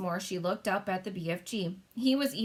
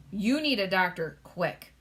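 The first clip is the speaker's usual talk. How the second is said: mild cry; 5 dB louder, slower than usual. Acted. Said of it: "cried the King".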